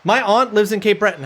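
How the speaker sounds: hammed-up Cape Breton accent. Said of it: "I know people that literally talk like this".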